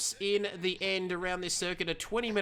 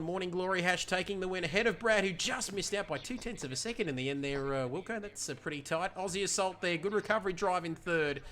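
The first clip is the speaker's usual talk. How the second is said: usual speaking voice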